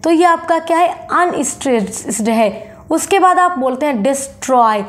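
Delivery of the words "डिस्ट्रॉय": "डिस्ट्रॉय" with weight on "ट्रॉय"; easy "डिस", then press on "ट्रॉय" in "डिस्ट्रॉय"; stress on second syllable. Shown as a demonstration. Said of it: "ट्रॉय बोलने के लिए आपको थोड़ा pressure".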